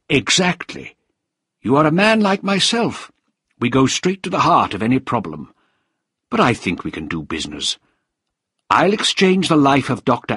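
high-pitched, self-satisfied villain voice; smooth villain striking a deal; scheming official. Acted. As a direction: offer the bargain with relish. Voices Krieger making his deal.

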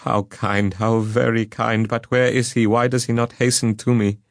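joyful eagerness. A narrator's reading. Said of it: "relaxed from anguish to pleasure".

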